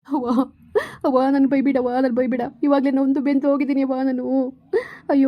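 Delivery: sobbing, broken-down begging; comic crying to his sister; crying plea. Acted. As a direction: cry as you beg her to scold you. Crying brother begs to be scolded.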